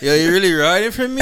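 laughing through a put-on London accent; giggling while playing the boyfriend; laughing mock roadman. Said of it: "acting out the husband, laughing".

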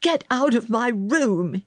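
high, indignant order; angry cry. A narrator's reading. Sick boy orders girl from his room, angry cry. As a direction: throw her out in a temper. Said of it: "he cried".

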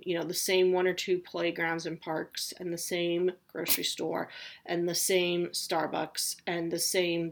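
normal talking voice

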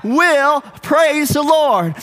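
slow, deliberate words for joining in; leading a recitation. Shown as a demonstration. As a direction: lean on a long "I", then "will". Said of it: "Let's say that again".

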